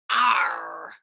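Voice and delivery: loud growled Arr; pirate arr. Retold or imitated. Teacher showing the class how pirates say it, with a pirate growl. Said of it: "pirates say".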